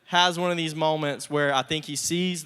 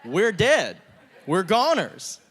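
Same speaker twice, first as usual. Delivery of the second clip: hammed-up dread with a laugh, higher and louder; mock terror; 4 semitones higher, 4 dB louder than usual. Brothers facing a weeping ruler, mock terrified. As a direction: fake a doomed panic, half-laughing. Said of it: "they're terrified 'cause they're like".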